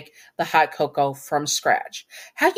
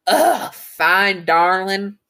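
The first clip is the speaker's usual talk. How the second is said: grudging giving-in; 2 semitones higher, 4 dB louder, much slower than usual. Acted. Stryker gives in to begging.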